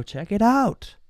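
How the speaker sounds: high, eager salesman voice, pushing the car; salesman pitch. Retold or imitated. Car dealer showing off the car to the buyer, high and eager. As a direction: sell it like a pushy dealer. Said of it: "and go".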